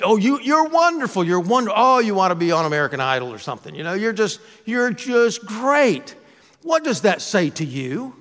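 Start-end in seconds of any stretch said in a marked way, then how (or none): 0.0-6.1 higher, gushing grandmotherly praise. Retold or imitated. Grandmother praising her grandchild's solo after church, doting gush.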